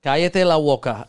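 playful attempt at a Spanish accent; showy Spanish accent. Shown as a demonstration. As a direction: show off a little Spanish. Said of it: "I can hit it with my native tongue".

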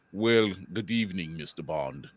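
low, smooth villain greeting; Bond villain. Retold or imitated. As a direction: purr it like a movie villain welcoming his enemy. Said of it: "Told you I'm the villain".

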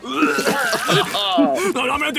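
laughing. Real, not acted. Laughing at vomit-covered papers.

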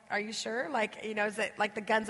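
soft, low, rising question; sheepish husband. Retold or imitated. Husband unsure whether to ask again, sheepish. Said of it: "that sheepish look that a husband has".

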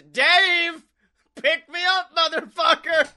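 loud, high demanding yell; angry cat yell. Retold or imitated. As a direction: yell at the owner like a spoiled cat. Cat yelling.

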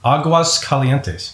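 Aguas Calientes sounded out slowly; slow careful pronunciation. Shown as a demonstration. Interviewer repeating the guest's city name to learn it, slowly. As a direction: say Aguas Calientes at half speed, word by word. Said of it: "say it slowly".

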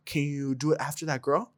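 low, soft cholo imitation; a hint of low cholo voice. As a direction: ask quietly as the tough boyfriend, lightly voiced. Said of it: "straight up cholo".

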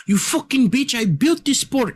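very high, squeaky mock outburst; Conor, sounding like Hasbulla. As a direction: imitate a fighter's boast, pitched absurdly high. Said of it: "that sounds like Hasbulla".

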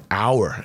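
"our" drawn out slowly for emphasis; stress on our. Retold or imitated. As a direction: lean on the word "our", stretching it. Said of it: "I emphasize the word".

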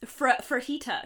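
frajita with an added R after the F; mother's mispronunciation. Retold or imitated. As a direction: imitate mom's frajita, R slipped in. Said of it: "she adds R's to things".

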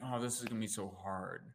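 low, soft mock complaint; defeated statement. Shown as a demonstration. Demonstrating a statement that keeps people stuck, mildly defeated. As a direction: sigh it out as a stuck, negative thought. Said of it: "the statement".

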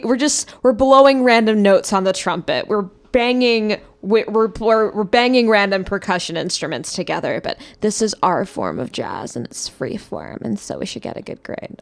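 lightly voiced Valley Girl; a hint of a Valley Girl. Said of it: "this Valley Girl voice".

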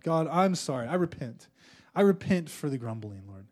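measured, earnest prayer of confession; repentant prayer. Real, not acted. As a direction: lead a congregation in saying sorry to God. Leads congregation in repentant prayer.

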